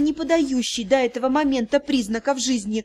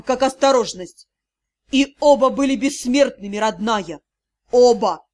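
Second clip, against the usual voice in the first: unleash the held-back fury; angry outburst. Acted. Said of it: "а затем сорвался уже он". (гневный срыв)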